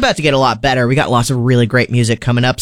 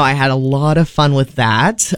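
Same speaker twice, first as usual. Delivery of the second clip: dry, mock-pleased sarcasm; sarcastic. Real, not acted. Radio host griping about a fire alarm wake-up, sarcastic. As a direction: say it with understated, obvious irony. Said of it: "the sarcasm in my voice".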